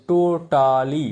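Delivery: teacher slowly modelling টোটালি; slow model word. Shown as a demonstration. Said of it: "তিনটি syllable থাকে".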